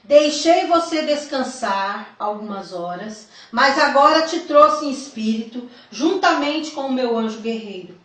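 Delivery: deliberate, emphatic reading aloud; solemn testimony reading. A narrator's reading. Telling the church of a vision from Jesus, solemn reading. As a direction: read it out as a weighty revelation. Reads out written vision account.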